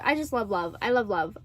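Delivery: low and soft, falling each time; soft, low repetition. Real, not acted. Gushing about a sweet movie, soft and low. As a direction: repeat it quietly, almost to yourself. Softly repeating love of romance.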